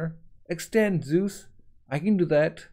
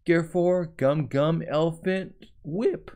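attack callout; 2 semitones higher than usual. Acted. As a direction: call the move out like in the anime. Calling out attack name.

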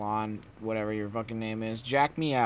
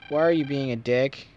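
loud, indignant telling-off; exasperated call-out; 3 semitones higher, 6 dB louder than usual. Real, not acted. Player scolding Proto Man in the game, loud and indignant. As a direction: yell at the boss to knock it off.

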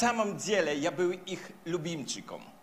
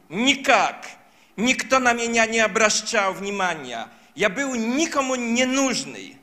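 put-on upset child; 3 semitones higher, 6 dB louder than usual. Child answers mother, hurt.

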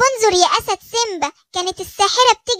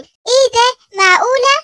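a higher, louder astonished cry; amazed; 4 semitones higher, 4 dB louder, slower than usual. Acted. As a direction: gasp it out in wonder. Giraffe amazed by magic hair.

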